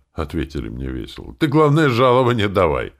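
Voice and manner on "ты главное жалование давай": loud, cheerful high call; cheerful demand. Acted. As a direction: push for the pay with a grin. Cheerful mercenaries demand pay. (весело и громко)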